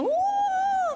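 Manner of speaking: high excited woo shout; mock cheering woo. Concert fan whooping at a singer's show, high excited woo.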